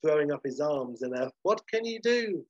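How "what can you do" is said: higher-pitched helpless exclamation; flummoxed. Acted. Flummoxed waiter giving up with a gesture, higher-pitched bafflement. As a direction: throw it up in bafflement. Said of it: "to which Manuel is flummoxed".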